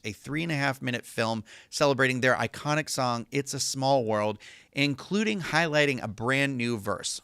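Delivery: measured announcement-reading voice; even, scripted podcast news delivery. Acted. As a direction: read it out like a park press release. Reads an announcement aloud.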